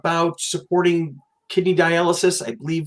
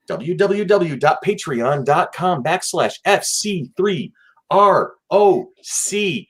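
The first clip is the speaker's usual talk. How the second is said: slow dictation; 3 semitones higher, slower than usual. Shown as a demonstration. Spelling out web address slowly.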